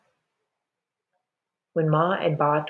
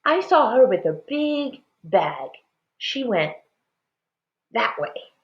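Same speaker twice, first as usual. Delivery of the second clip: put-on small boy; 5 semitones higher than usual. A narrator's reading. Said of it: "he said".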